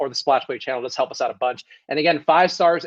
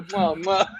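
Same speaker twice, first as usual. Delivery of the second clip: air kisses. Shown as a demonstration. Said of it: "You go".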